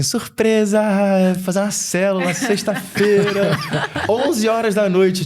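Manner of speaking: high, laughing, slow mock cheer; husband mimics his wife's late-night surprise, laughing; mock surprise announcement. Wife announcing late prayer meeting.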